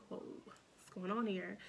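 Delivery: breathy, hushed disbelief, slowed down; a retold whisper of shock; stunned whisper. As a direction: whisper it as if the news just hit you. Shocked to be already dilated.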